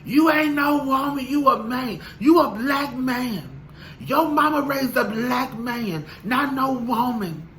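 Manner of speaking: high, slow, mocking singsong; mocking hater. YouTuber parroting a hater back, high and mocking. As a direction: lecture the commenter back in a high sassy voice. Mocking commenters, much higher.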